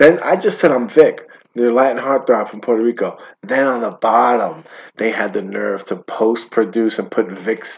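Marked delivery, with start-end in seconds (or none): none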